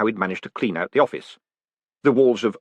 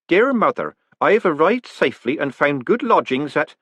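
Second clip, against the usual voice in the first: higher, louder country lad reading his letter home; a scritchy young country voice, a bit higher; country boy letter voice; 6 semitones higher, 3 dB louder than usual. A narrator's reading. A letter writer telling his mother he arrived safely, country boy voice. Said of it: "The voice sounded like a, a country boy".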